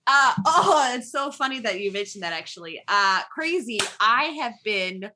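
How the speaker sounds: put-on Wisconsin accent. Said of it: "What would Wisconsin Allison".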